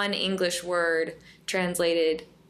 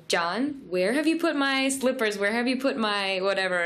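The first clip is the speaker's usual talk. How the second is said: questioning; 3 semitones higher than usual. Shown as a demonstration. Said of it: "a questioning one".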